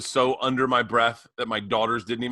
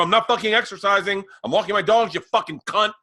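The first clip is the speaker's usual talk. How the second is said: higher, louder snapping comeback; angry retort; 5 semitones higher, 4 dB louder than usual. Retold or imitated. Retelling how he cursed out the woman, angry. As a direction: fire it back at her. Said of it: "And I go".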